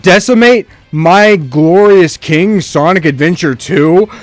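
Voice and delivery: mock-grand fury at the game; outraged rant. Real, not acted.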